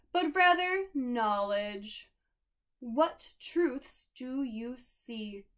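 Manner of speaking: put-on slow, grand old man of the kitchen; lightly voiced solemn elder; slow oracle voice, softening at the end; wise old sage. Wise old character greets visitors.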